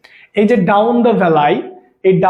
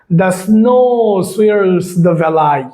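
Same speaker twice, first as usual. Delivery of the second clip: slow dictation; much slower than usual. Shown as a demonstration. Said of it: "teacher reads exam sentence".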